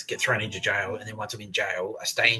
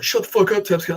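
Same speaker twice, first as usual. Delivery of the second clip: high, loud mock shout; retold yell; 11 semitones higher, 8 dB louder than usual. Screw silencing Tapscott in a row, retold yell. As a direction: imitate a yelled telling-off, pitched way up. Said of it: "yelled at everyone".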